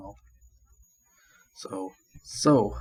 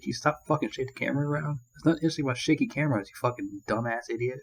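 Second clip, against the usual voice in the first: annoyed rant; 3 semitones higher, faster than usual. Retold or imitated. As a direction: fire off an irritated telling-off. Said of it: "I was getting really annoyed".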